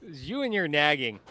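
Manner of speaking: hammy evil Harvey scorn; stagey fake archaic declaiming. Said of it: "Evil Harvey. Go ahead. Enlighten us".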